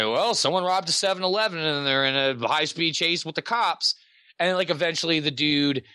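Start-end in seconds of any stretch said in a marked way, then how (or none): 0.0-3.9 mock news anchor. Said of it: "they're like".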